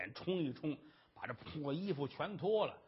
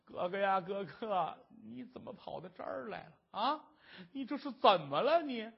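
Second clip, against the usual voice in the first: 哭腔; 2 semitones higher than usual. Acted. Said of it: "哥俩搂着一块儿是放声痛哭啊".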